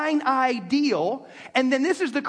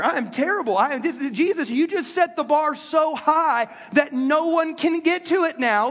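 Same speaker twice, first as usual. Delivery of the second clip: mock-despairing complaint, pitched up a little; whiny protest; 3 semitones higher than usual. Men in the room groan at Jesus, mock whining. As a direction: whine like a man whose excuses just ran out. Men react to hard teaching.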